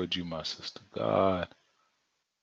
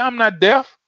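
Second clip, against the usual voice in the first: voice of God; 10 semitones higher, 4 dB louder than usual. Retold or imitated. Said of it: "God said".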